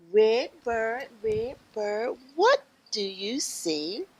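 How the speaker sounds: rhythmic picture-book refrain; reading to children. Acted. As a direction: chant it invitingly for little listeners.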